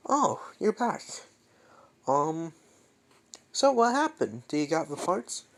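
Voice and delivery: a friend greets Deku back, keen for the news; eager friend. Acted. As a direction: bounce up to greet him with questions.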